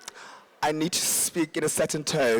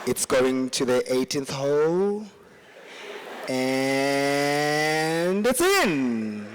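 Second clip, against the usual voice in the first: golf commentator; 6 semitones lower, much slower than usual. Retold or imitated. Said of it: "if you were a sports commentator".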